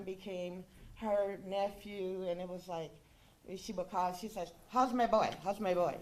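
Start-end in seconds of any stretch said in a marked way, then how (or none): 4.7-5.3 louder, fond call of her greeting; imitating her greeting. Friend imitating how she greeted her son, loud. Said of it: "That's how she say my". 5.4-6.0 imitating her greeting, echoed. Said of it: "That's how she say my".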